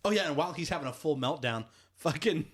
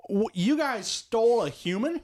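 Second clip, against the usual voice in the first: much higher, louder, slow disbelief; shocked; 11 semitones higher, 5 dB louder than usual. Retold or imitated. Quill to his friends about the kidnapping, much higher, shocked. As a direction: stretch it out in appalled disbelief. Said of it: "he's like".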